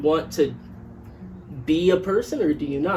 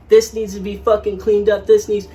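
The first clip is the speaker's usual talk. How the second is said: higher, louder angry mock rant; mom yelling; 6 semitones higher, 7 dB louder than usual. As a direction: bark it like a fed-up mom. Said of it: "she'd... it's just like".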